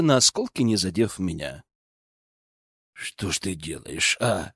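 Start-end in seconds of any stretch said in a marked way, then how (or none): 2.9-4.5 low, much softer mutter. A narrator's reading. Guard muttering at the nobleman after the glass smashes. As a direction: grumble it under your breath. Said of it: "пробормотал Витёк".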